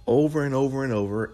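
rising emphasis. Real, not acted. Preacher climbing to the peak of the list. Litany climax.

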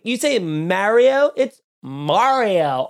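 slow, fussy correction; mocking a pronunciation snob; mock pedant. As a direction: imitate a know-it-all fixing Mario. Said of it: "people being like".

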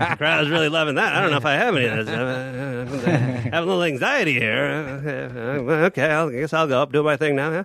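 lightly done comic impression, hesitant ums and asides; halting, rambling impersonation with little chuckles; Norm Macdonald. Comedian backstage reacting to his stoned opener, lightly impersonated. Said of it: "I like your impression of Norm Macdonald".

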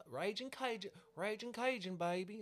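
high, hammed-up Cajun call; Cajun catchphrase. Imitating a Louisiana TikToker's catchphrase, Cajun accent. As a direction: belt it out like a Cajun TikTok star. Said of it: "and then she".

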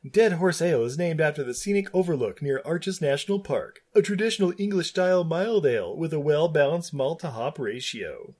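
smug voice; Stan Marsh smug voice. Acted. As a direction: read it smug and pleased. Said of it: "this Stan Marsh smug voice".

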